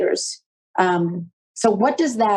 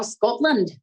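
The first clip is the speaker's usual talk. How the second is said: a quick, hammed-up Scottish "Scotland" that lands a little higher; bad Scottish accent; 4 semitones higher than usual. Host naming the conference city, jokey bad Scottish accent. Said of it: "That's my really bad Scottish accent".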